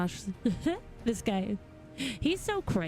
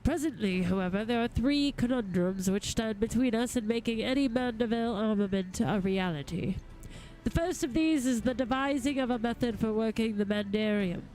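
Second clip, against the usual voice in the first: lightly voiced courtly gentleman, eloquent and eager; a hint of a grand lord addressing helpers; formal gentleman goldsmith. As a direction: read it as a formal, well-spoken master craftsman. Reads a game figure's dialogue.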